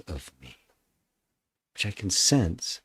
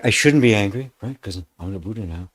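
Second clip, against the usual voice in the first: lightly voiced self-talk, louder; mock spiritual ego; 6 dB louder, faster than usual. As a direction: act out the mind excusing anger. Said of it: "It's like".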